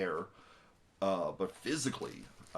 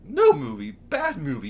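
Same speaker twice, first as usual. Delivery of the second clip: much higher and louder, scolding the film; mock scolding yell; 12 semitones higher, 11 dB louder than usual. Reviewer scolding the film for the scare, loud mock yell. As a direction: shout it down like a scared pet owner.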